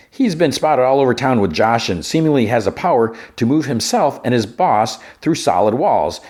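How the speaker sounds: punchy, lilting TV gossip-host delivery; entertainment news read. Acted.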